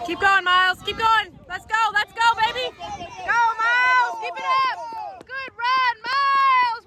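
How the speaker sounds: hoarse marathon cheering. Real, not acted. Parent cheering child's run.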